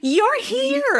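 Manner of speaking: mock thrilled, very high excited shout. Retelling a movie scene where a character runs over: imitating an excited shout. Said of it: "She runs over and shouts".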